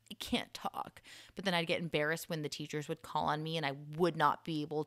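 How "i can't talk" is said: whispered, a little higher; pretend lost-voice whisper. Showing classmates she cannot talk, whispered. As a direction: mouth it like your voice is gone.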